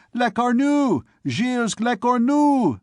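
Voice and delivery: high-pitched, drawn-out jeer; jeering students. A narrator's reading. Students greeting the furrier's unlucky name, jeering. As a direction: call the name in high mockery. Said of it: "A shout of laughter".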